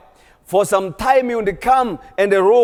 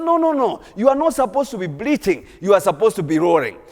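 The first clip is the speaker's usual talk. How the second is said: scolding lion; faster than usual. Acted. Wild lion scolding tame lion.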